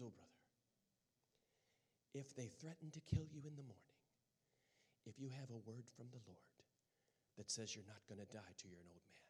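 low, lightly British counsel; a touch of British accent; imitated British accent. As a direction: counsel like a British missionary sister. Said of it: "with her British accent".

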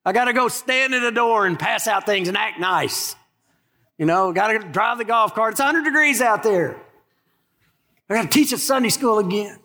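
hammed-up resentful griping; mock fury. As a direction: play a put-upon volunteer complaining. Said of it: "furious about it".

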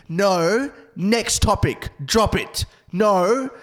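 loud, high, firm shutdown; retold yelling. Woman at work party to comic going too hard, imitated yelling. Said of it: "she's yelling at you".

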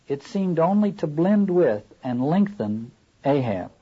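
measured, deliberate reading aloud; literary reading. A narrator's reading. Lecturer reading Moby-Dick to a class, literary reading. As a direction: read it out with weight and pauses.

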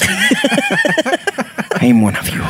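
very high, slow eerie drone; eerie ghost voice. Pretend. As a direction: stretch it out like a ghost. Mocking ghostly staff line.

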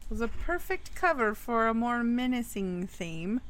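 storyteller voice, dramatic and measured; spooky story narration. A narrator's reading. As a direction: tell it like a campfire ghost story.

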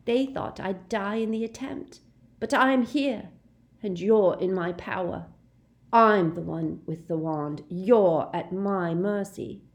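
cling to power, voice climbing; frightened teen bravado; defiant boast. Acted. Draco defiant with wand.

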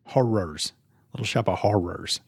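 put-on lisping little-girl voice; toddler talk. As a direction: say it like a three-year-old girl. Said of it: "Why are you saying it like a three-year-old girl?".

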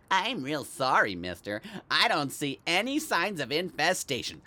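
lightly voiced exterminator kid; mildly mocking imitation of a young exterminator; imitated exterminator kid. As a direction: give a hint of the apologetic company kid. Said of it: "like the one they sent from the exterminators".

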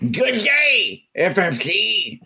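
Good day, F F C with a slushy lisp, slow; lateral lisp. Shown as a demonstration. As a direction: lisp deliberately, slowly. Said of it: "you should read the whole card that way".

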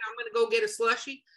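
a hint of a Southern accent, slowed down. Imitating an orc from a submission in a mild Southern accent. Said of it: "I did a Southern accent for that".

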